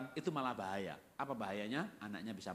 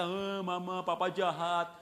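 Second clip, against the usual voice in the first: put-on louder, drawn-out child's complaint; whining child; 3 semitones higher, 4 dB louder, slower than usual. Child telling mama papa is mean, mock whine. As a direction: tattle to mama, mock tearful. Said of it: "Misalnya anak berkata".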